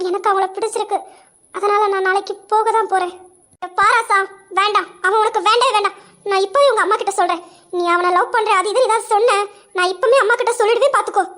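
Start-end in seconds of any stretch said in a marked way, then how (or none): 3.8-11.2 heated, insistent threat; stern warning. Acted. Friend threatening to tell her mother, stern. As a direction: warn her off firmly.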